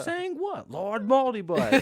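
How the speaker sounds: high, loud, slow villain voice; cold rasping evil emperor. Pretend. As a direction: hiss the name like an evil lord. Mock Voldemort bit.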